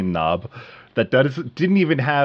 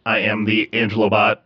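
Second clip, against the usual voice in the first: robot voice. Shown as a demonstration. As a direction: voice through a robot effect. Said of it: "the F X part means there's sound effects".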